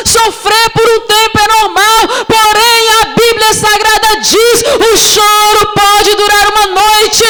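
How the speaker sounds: high, driving sermon delivery; full-force preaching. Real, not acted. Preacher tells the sisters crying is normal, impassioned preaching. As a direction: preach it out with rising intensity and stretched phrases.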